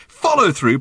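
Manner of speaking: high, indignant query; protesting. A narrator's reading. Arthur answering Ford's criticism of his technique, protesting. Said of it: "protested Arthur".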